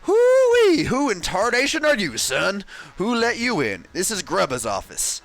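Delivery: put-on old prospector voice, high and hollering; Grubba voice. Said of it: "I'm gonna voice Grubba".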